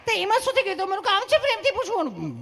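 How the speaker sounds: very high, sweet nurse voice; reply kindly in a put-on high voice; mock female nurse, squeakily high; loving nurse. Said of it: "તમે કેટલું પ્રેમથી પૂછો છો".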